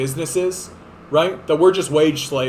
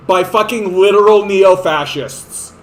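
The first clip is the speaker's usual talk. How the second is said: angry shout; 2 semitones higher, 6 dB louder than usual. Real, not acted. Angry rant.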